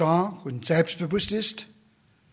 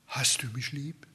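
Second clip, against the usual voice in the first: voiceless and much softer, a hushed whisper; 4 semitones lower, 7 dB quieter than usual. Acted. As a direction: whisper the question face to face, very softly. The Lord looks at each personally.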